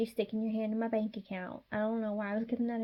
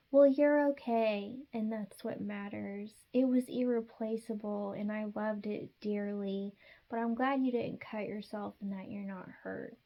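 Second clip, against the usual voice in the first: sweet reassurance. Retold or imitated. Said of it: "Just tell them".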